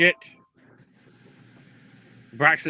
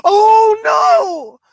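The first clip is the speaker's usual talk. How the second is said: a flamboyant pianist; 9 dB louder than usual. Retold or imitated. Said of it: "actually a flamboyant pianist".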